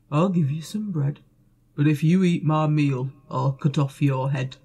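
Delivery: low, loud, threatening ogre-ish baker; menacing baker. Acted. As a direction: threaten like a gruff giant. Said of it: "said the baker".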